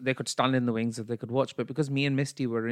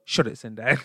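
put-on laughing Bradford accent. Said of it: "I should just go".

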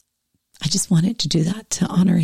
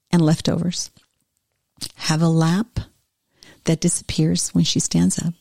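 story reading. Acted. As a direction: read it like a tender tribute to mothers. Reads Bombeck piece aloud.

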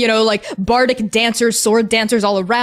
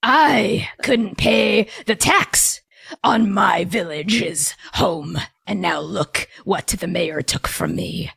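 slow, low growly gnoll; 3 semitones lower, slower than usual. Acted. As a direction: growl it out slowly like a bitter gnoll. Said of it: "growly voice next to him".

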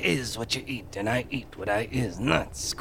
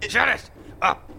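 angry shout; 10 semitones higher than usual. Acted. Snapping at the hippie.

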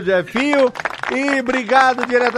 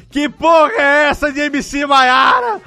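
loud, higher mock outrage; mock angry yell; 6 semitones higher, 5 dB louder than usual. Imitating Nath's angry reaction.

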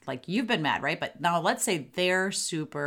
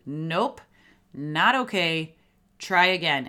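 absolute firm parental refusal, louder by "Try again"; really firm; 4 dB louder, slower than usual. Shown as a demonstration. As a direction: lay down the law with separate, emphatic phrases. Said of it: "that phrase needs to be really firm".

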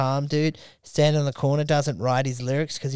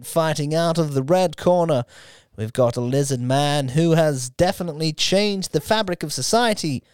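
boxing ring announcer. Pretend. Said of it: "my ring announcer voice".

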